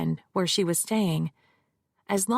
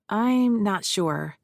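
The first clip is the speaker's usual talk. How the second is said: put-on Midwestern accent; 2 semitones higher, slower than usual. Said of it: "she said in a flat Midwestern accent".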